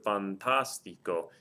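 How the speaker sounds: fantastico with stress on the TAS; stressed syllable. Shown as a demonstration. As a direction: lean on the second syllable of fantastico. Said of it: "I'm stressing one of the syllables".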